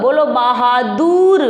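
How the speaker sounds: drawn-out word; slow dictation. Shown as a demonstration. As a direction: say it slowly for the class. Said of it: "अब देखो आपको क्या करना है". (धीमे शब्द बोलना)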